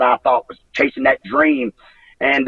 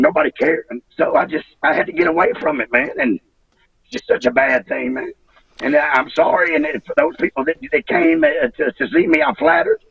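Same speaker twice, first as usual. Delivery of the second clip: real upset, voice pitched up in bursts; emotional; 8 semitones higher than usual. Real, not acted. Wrestler apologizing to let-down fans, emotional. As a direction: get worked up while explaining yourself. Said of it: "I get emotional now when I discuss".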